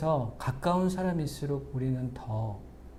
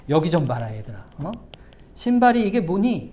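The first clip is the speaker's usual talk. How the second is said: a scolding father's rising yell, louder on the last words; 5 dB louder than usual. Retold or imitated. Father scolding his kids about messy shoes, building scold.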